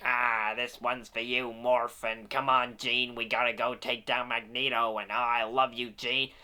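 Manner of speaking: lightly mock the cartoon Logan's delivery; mocking Wolverine voice. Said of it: "something about the way this guy talks".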